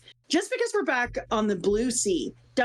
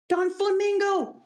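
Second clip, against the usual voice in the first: higher, startled call; awed cry; 10 semitones higher than usual. Acted. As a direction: shout his name in shock. Pirate crying out the warlord's name.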